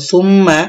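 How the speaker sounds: সুম্মা with the doubled m held and hummed; ghunnah. Shown as a demonstration. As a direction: linger on the m of সুম্মা. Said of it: "এখানে আমরা গুণা করব".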